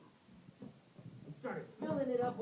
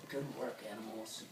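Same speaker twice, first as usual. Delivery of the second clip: king lion voice; 10 semitones lower, 8 dB quieter than usual. Acted. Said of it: "He said".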